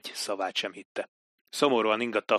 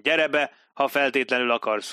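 irritated call through the door; captain calling to the knocker, annoyed; 2 semitones higher than usual. Acted. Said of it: "kiáltotta".

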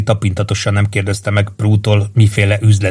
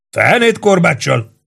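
high, drawn-out indignant denial; indignant outburst; 8 semitones higher, slower than usual. A narrator's reading. Barry rejects the idea of a whip, indignant. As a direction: burst out in affronted disbelief, pitch up. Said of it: "robbant ki méltatlankodva Barry".

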